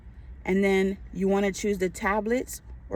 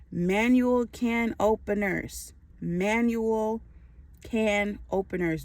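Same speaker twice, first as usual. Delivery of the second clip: slowed, deliberate repetition; emphatic reminder, drawn out; slow emphasis; slower than usual. Real, not acted. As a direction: drive the item home slowly, pausing mid-phrase. Repeats item so nobody forgets it.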